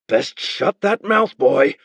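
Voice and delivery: slow, lightly threatening; warning Beren. Acted. Beren warns the boy to be silent, mild threat. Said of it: "Beren told him".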